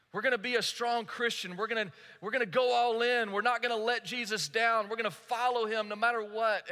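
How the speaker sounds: acted gung-ho determination; confident resolve. Believers vowing to follow Jesus no matter what, gung-ho resolve.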